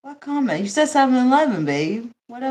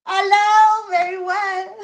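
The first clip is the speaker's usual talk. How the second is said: high, loud imitated Indian English; hammed-up Indian-accent greeting; mock Indian accent; 10 semitones higher, 6 dB louder, slower than usual. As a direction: put on a thick Indian accent. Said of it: "They know how to say it".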